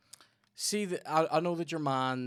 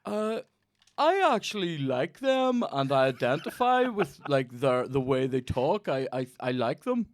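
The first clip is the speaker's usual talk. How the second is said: mock audience member; 3 semitones higher, 5 dB louder than usual. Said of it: "And he goes".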